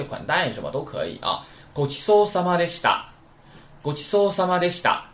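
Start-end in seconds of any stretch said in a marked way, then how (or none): 1.7-5.0 louder, higher model phrase; model reading. Shown as a demonstration. Teacher models the after-meal phrase. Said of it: "表示我吃饱了".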